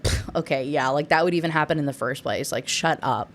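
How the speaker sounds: a wife scoffing at the maid. Retold or imitated. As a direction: brush off the idea with contempt. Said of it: "scoffs off the idea".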